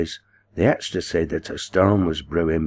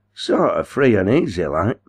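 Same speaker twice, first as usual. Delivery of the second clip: sneering; 3 semitones higher, 3 dB louder than usual. Acted. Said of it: "sneered Day".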